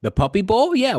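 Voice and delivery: high, loud, eager question; excited. Real, not acted. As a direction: act thrilled about it. Joking answer about big game.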